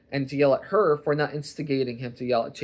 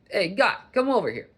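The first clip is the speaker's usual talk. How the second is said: Boston or New York guy; 8 semitones higher, 6 dB louder than usual. Retold or imitated. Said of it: "some guy from Boston or New York".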